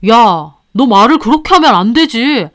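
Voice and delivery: lightly voiced husband, wounded; hurt husband. Husband reproaches the mistress, hurt. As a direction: protest that he gave up everything.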